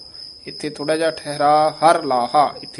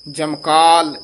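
ਜਮਕਾਲ said louder, then a break; pause after word; 5 dB louder, slower than usual. Shown as a demonstration. Teacher marks the pause after ਜਮਕਾਲ for the student. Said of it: "ਇੱਥੇ ਯਮਕ ਲਾਉਣੀ ਹੈ".

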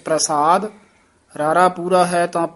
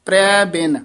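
ਪ੍ਰੈ ਬਿਨ said louder, then a full rest; pause after ਬਿਨ; 3 semitones higher, 6 dB louder than usual. Shown as a demonstration. Teacher marks the rest after ਪ੍ਰੈ ਬਿਨ, louder. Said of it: "ਇੱਥੇ ਵਿਸਰਾਮ ਹੈ".

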